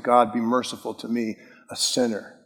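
softly voiced, low plea for mercy; penitent plea. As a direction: plead quietly with God, lightly acted. Quoting a penitent's plea to God.

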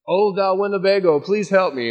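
lofty mock-solemn cry; mock prayer.

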